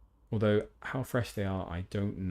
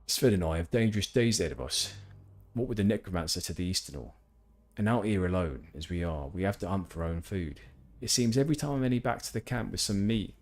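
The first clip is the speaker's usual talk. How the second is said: louder lone hunter NPC; quest-giver voice; 2 semitones higher, 5 dB louder than usual. Acted. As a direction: call out like a wary woodsman. Reads Lars's quest text.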